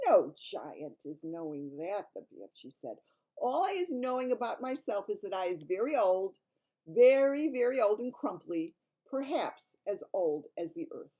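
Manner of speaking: big friendly giant voice; kindly giant voice; BFG giant voice. Acted.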